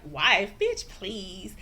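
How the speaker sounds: loud scoffing "Wife?" then dismissive; mocking dismissal; scoffing disbelief. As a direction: scoff at the very idea. Karen mocking the wife claim.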